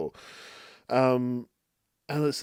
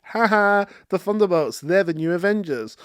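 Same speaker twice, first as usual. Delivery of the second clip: gloating villain; 5 semitones higher than usual. Retold or imitated. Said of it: "she's like".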